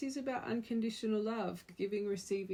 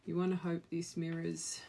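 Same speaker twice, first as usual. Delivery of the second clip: normal talking voice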